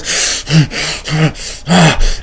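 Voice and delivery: mimed heavy, angry breaths; angry huffing. Retold or imitated. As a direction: huff like a man about to hit someone. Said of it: "this man got really mad".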